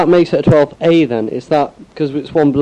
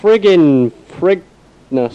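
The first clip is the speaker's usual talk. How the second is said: silly drawn-out voice; 4 semitones higher, much slower than usual. Acted.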